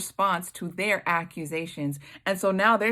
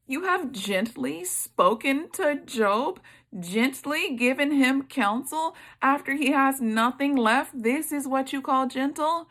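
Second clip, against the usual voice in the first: sarcastic; 6 semitones higher than usual. Real, not acted. Preacher sarcastically questioning the friends' gentle words. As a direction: lift it up high in disbelief.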